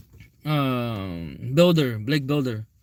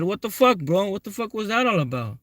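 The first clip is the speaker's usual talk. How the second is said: higher, incredulous mock shout; retold angry outburst; 5 semitones higher than usual. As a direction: demand an answer in disbelief, pitch up. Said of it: "I said".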